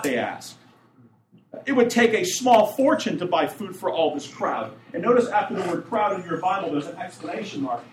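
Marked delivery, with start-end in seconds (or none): 1.7-4.7 mildly raised sarcastic objection; sarcastic protest. Acted. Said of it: "almost like they're shouting at God".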